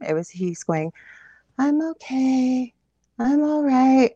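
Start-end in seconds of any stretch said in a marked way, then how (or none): 1.6-4.1 high, slow, eerie drawn-out chant; not-himself voice. Retold or imitated. Wife imitating her seizing husband, his voice but not him, eerily high. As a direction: imitate a possessed man insisting, stretched out high. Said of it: "it was his voice, but it wasn't him".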